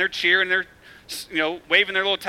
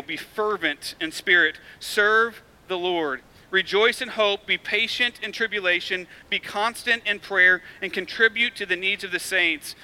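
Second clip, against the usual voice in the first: scripture reading. Acted. Preacher reading Romans to the congregation, measured. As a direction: read the verses out with weight.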